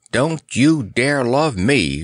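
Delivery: slow, emphatic mild wrath; understated lion's indignation; wrathful rumble. Acted. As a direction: forbid it with heavy, drawn-out words. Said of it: "rumbled the Cowardly Lion".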